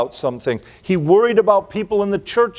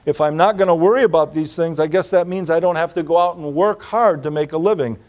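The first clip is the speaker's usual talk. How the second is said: mock lazy excuse; faster than usual. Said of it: "some people say".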